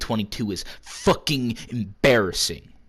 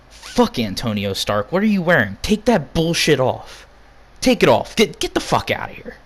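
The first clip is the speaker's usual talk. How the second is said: higher, pushed yell telling him to strip the shirt; angry yell at a fan; 4 semitones higher than usual. Acted. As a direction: chase the fan out, pitch climbing. Yelling at fan in a rap group's merch.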